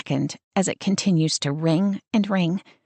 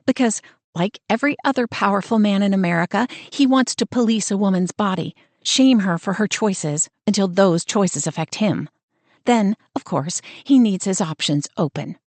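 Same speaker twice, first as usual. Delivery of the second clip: bitter rant. Acted. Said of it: "she snaps".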